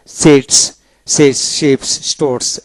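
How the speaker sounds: সিটস begun with a dental "s"; dental S opening. Shown as a demonstration. Teacher showing words that start with S, dental S demonstration. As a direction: open স্টোরস on "s", not "sh". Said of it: "শুরুতে এস থাকলে as usual দন্তাস্য হয়".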